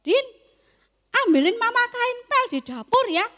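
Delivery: mother asking Din for the mop; mother calling. Pretend. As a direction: call the kid from the other room. Mother calls child for mop.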